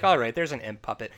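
mildly weary acceptance; imitated tired tone. Actress accepting the imp puppet, mock-tired resignation. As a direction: state it resignedly, as if past surprise. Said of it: "tired and like".

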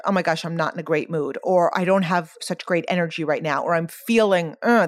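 low, soft, quick inner grumble; mock low mood. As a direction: lightly imitate a low-energy moment. Acts out her own low-mood thoughts.

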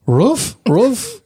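high-pitched dog woofs in words; imitated pug bark. Answering what the Irish pug says, imitated bark. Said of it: "What does he say?".

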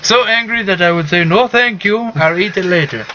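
put-on Indian accent. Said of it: "it's an Indian accent".

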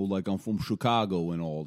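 put-on Chicago tough-guy accent. Shown as a demonstration. Husband showing off to wife, mock Chicago accent. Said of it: "I can kinda do like".

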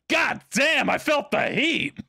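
imitating a friend's startled shout; shocked yell. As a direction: yell it like you just got blasted in the face. Friend shoots up, farted on.

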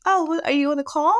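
high-pitched nosy mom interrupting a call; lilting, high mock-mom voice; Teresa. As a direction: imitate a mother butting in, voice lifted high. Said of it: "she's like".

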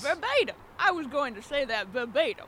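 be floored he guessed it; astonished. Acted. Astonished customer.

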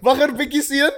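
high, laughing mock Afrikaans phrase. Friends trading the Afrikaans phrase, laughing. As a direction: toss back the Afrikaans line, giggling. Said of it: "Wacht 'n bietjie".

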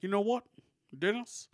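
light presidential impression, pitched questioningly upward; Barack Obama. President confiding in Dennis about studying Baphomet, lightly voiced impression. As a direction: lightly imitate a president making a casual confession. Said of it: "That was a pretty good Obama impression".

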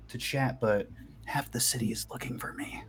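soft, hushed confiding; furtive undertone of someone being hunted; whisper. Acted. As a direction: drop into a secretive whisper. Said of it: "I whisper".

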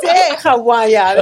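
stretched, slurred Aussie "how are you"; mock Aussie slur. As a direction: drag it out like an Aussie. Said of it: "It's actually like".

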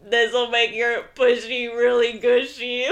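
lightly voiced mechanical robot; a hint of a robot reading it out. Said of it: "he says in the robot voice".

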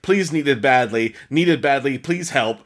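hammed-up urgent pleading; mock begging. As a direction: read the urgent plea with growing mock desperation. Reading the pleading post aloud.

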